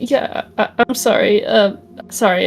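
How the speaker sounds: stammered, mildly timid apology; pretend scared. Alice playing weak before Tyke, feigned timid stammer. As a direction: falter through a meek sorry. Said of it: "pretends to be scared".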